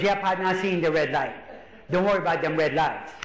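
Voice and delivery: lightly voiced Cajun uncle; Cajun accent. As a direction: imitate an unbothered Cajun driver. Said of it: "he's got that accent".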